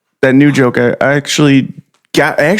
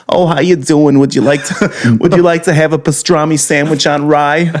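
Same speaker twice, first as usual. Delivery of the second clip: lightly voiced Jewish deli accent; Jewish deli guy. Jewish deli guy greets a customer, put-on accent. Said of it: "see some guy like".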